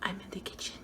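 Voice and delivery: hushed, voiceless whisper; barely audible whisper. Real, not acted. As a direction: whisper it very softly. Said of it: "Why am I whispering?".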